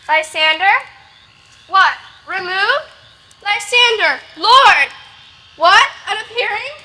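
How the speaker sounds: loud, anxious calls into the dark; calling out. Acted. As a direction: call for him, growing alarmed. Searching for missing lover, calling.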